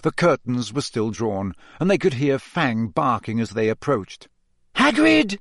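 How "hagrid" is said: high, loud call through the door; shouted. A narrator's reading. Hermione pounding on Hagrid's door, shouting his name. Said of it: "Hermione shouted".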